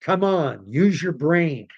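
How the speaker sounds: fed-up lecture to the public; exasperated rant. Real, not acted. Ranting at the public.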